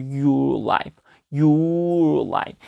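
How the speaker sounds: "your life" with "your" held long and steady; slow teacher's model of "your life"; linked pronunciation demo. Shown as a demonstration. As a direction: draw out "your", then touch the tongue up for "life". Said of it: "이런 식으로 발음해주면 돼요".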